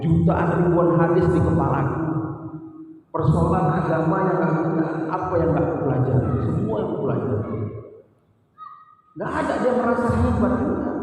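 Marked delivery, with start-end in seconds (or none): 0.0-7.6 boastful scholar. Retold or imitated. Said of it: "nganggar-nganggar ilmu".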